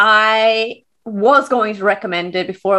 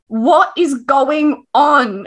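baffled partner; 4 semitones higher, much slower than usual. Retold or imitated. Quoting partner baffled by her tears.

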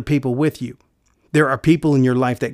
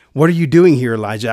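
harsh rebuke; 5 dB louder, faster than usual. Acted. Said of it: "I don't imagine when God's saying".

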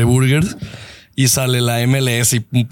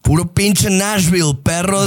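hyped-up cheer; 6 semitones higher, slower than usual. Real, not acted. Cheering for Nashville on mic.

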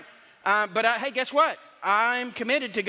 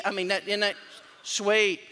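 normal talking voice

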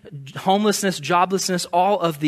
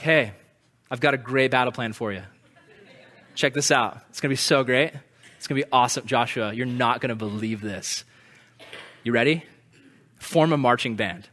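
lower, softer, playful buildup; excited God; 6 semitones lower, 3 dB quieter than usual. Retold or imitated. God pitching the battle plan to Joshua, playful. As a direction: sell the crazy plan like a secret.

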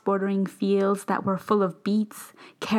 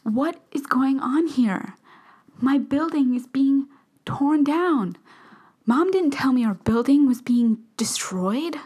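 shocked; 5 semitones higher than usual. Acted. Shock at ruined building.

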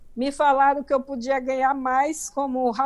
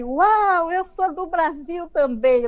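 higher-pitched, mildly excited retold greeting; imitated happy exclamation, pitched up; delighted surprise; 4 semitones higher, slower than usual. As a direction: act out a pleasantly surprised discovery. Acted delight at fellow Brazilian.

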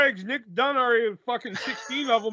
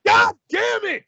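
loud, high-pitched shout; frustrated outburst; 11 semitones higher, 8 dB louder, slower than usual. Real, not acted. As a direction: curse it out in real frustration. Curses a failed pinfall attempt.

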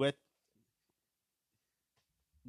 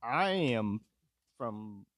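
slow attempt at a Swedish accent; mock Swedish accent; much slower than usual. Podcaster mocking the character's bad accent, Swedish-accented imitation. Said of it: "he was like Swedish".

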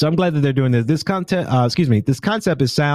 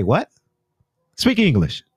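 rude dismissal; 3 semitones higher than usual. Retold or imitated. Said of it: "a lot of people that say".

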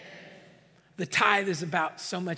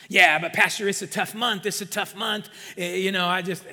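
loud, stammered excuse to the pastor; mock protest; 6 dB louder than usual. Congregant making excuses to the pastor about tithing, mock protesting. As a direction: plead an excuse, loud at first, then faltering.

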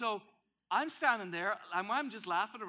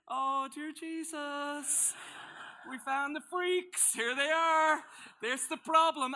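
high, drawn-out cry of mock horror; hammed-up scandalized outcry; mock alarm; 8 semitones higher, 7 dB louder, slower than usual. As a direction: sound the alarm, loud and slow, hamming it up. Acts out his alarm at the scandal.

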